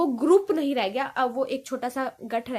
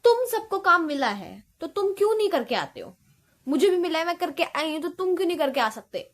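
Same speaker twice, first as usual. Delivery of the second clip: raised, fed-up scolding of classmates; student scolding classmates who keep asking for her notebook, sharp and annoyed; irritated scolding; 3 semitones higher, 4 dB louder than usual. Retold or imitated. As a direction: snap back at lazy friends asking for notes. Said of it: "फिर मैं ऐसे बोलने लगती हूँ".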